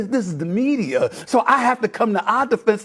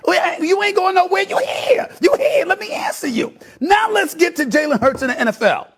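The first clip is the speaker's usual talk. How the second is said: heated pundit debate; 4 semitones higher than usual. Real, not acted. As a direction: talk over him insistently. Cutting off co-host in argument.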